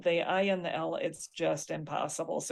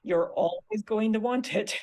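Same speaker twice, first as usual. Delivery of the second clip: slow, higher, insistent teacher's advice; emphatic advice; 4 semitones higher, 4 dB louder than usual. Retold or imitated. Teacher advising students about their handout, emphatic advice. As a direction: press the advice home, drawing it out. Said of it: "and I'm like".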